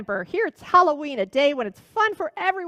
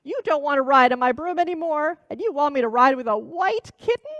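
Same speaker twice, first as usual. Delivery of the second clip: much higher and louder self-pitying wail; old witch pities herself, near tears; almost crying; 7 semitones higher, 5 dB louder than usual. Acted. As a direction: whine like a hag on the verge of tears. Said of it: "The old witch was almost crying now".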